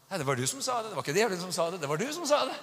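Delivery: insistent accusation. Acted. Spouse refusing the devil excuse, insistent accusation. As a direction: insist on it, climbing to the end. Acted retort in the quarrel.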